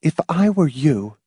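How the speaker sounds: thin, restrained warning; said thinly. A narrator's reading. Marcia cautioning Hamilton not to boast, thin voice. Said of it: "Marcia said thinly".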